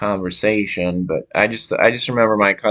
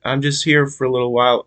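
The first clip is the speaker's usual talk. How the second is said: put-on half-hearted Texas accent, pitched higher; attempted Texas accent; 6 semitones higher than usual. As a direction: try a Texas accent without really managing it. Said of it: "I can't do the accent".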